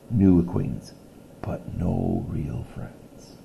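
reading a picture book aloud to a class; steady read-aloud storytelling voice; story narration. A narrator's reading. Teacher reading a story to her class, read-aloud voice.

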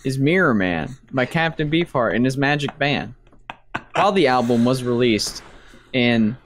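stiff robotic announcer voice. Acted. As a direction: read it like a flat robot. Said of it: "Are you trying to sound like a robot".

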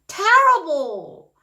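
terrible with a high, loud, drawn-out TER; stress on first syllable. Shown as a demonstration. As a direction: hit the front of terrible hard and stretch it. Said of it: "강세가 앞에".

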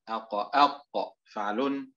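أق، أق slowed, each echo held; أق، أق dragged out; slow, drawn out. Shown as a demonstration. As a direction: stretch out أق، أق.

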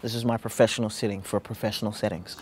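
measured professional register; corporate code. Shown as a demonstration. Explaining the corporate code, measured and professional. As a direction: speak properly, composed and businesslike. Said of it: "now we switch to the corporate code".

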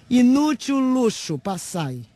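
loud, high cry of scorn; sudden theatrical outburst, pitched high; declamatory shout. Acted. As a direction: cry it out as a public condemnation. Peak cry of the declaimed tirade.

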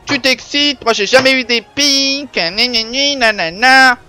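high, loud teasing nag; mock a jealous commenter; hammed-up whiny troll; mocking whiny viewer. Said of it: "On va me dire".

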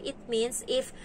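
slow, piece-by-piece explanation; explaining to a child. Retold or imitated. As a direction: spell it out slowly for a small kid. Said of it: "Sinasabi ko sa kanya".

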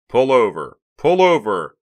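loud, forceful police order; officer over loudspeaker. A narrator's reading. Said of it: "came the distorted voice of an officer from the loudspeaker".

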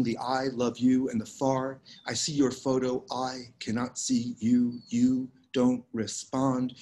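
measured, unhurried poetry reading with lingering pauses; poem reading. Acted. Poet reading her work to a Zoom audience, measured poem reading. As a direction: let each image settle before the next. Reads the long poem Hechizo.

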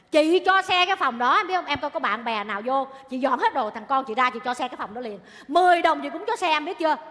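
angry warning. Acted. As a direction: lay down the law, angrily. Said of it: "Đừng có chọc giận chị".

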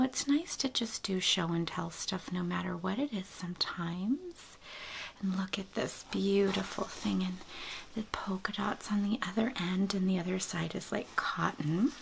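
soft whispered unboxing; breathy hush, as if close to the mic; ASMR whisper. Real, not acted. Whispering to viewers about baby gifts, ASMR whisper.

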